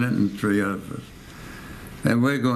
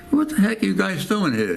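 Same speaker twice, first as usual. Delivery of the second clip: gruff challenge; 9 semitones higher than usual. Retold or imitated. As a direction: confront the lost soldiers gruffly. Officer confronts lost soldiers.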